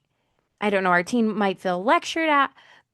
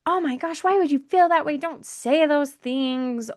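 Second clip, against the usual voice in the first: alarmed parent; 5 semitones higher than usual. Retold or imitated. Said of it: "instead of being like".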